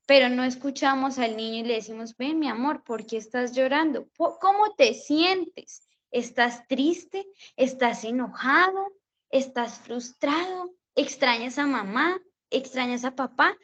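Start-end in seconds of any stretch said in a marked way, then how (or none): 2.2-13.5 put-on gentle, coaxing questions to a crying child; tender soothing. Teacher asking a crying toddler what's wrong, tender.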